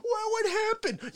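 ordinary talk, nothing marked

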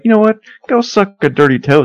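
loud, sassy put-down to a friend; mock snappy comeback. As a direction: fire it off like a playground insult. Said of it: "I'll be like".

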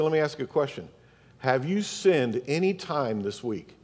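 soft, gentle questioning; very kindly. Retold or imitated. Pastor asking an angry man about his week, very kindly. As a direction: ask it kindly, without pushing. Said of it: "I said it very kindly".

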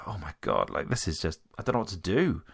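low, subdued voice imitating a dejected driver. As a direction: retell it quietly, as if deflated. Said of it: "he looked so dejected".

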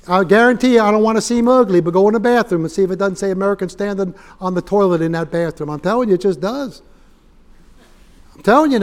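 loud, ringing revival preaching; loud fervent sermon climax; full-force preaching. Acted. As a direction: preach it out to the whole room.

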